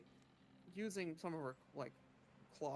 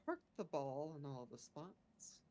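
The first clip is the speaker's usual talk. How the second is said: halting adventurer character. Acted. Player recounts the day in character.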